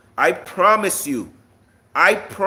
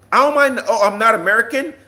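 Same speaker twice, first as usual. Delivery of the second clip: higher, louder, incredulous retort; indignant disbelief; 4 semitones higher, 4 dB louder, faster than usual. Real, not acted. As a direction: throw the accusation back as an affronted question. Indignant reply to commenter's accusation.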